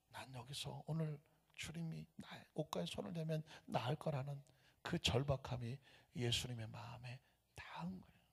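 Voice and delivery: soft, hushed telling of a desperate thought; hushed inner voice. Retold or imitated. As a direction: breathe it like a secret longing. (속삭이듯 간절한 속마음)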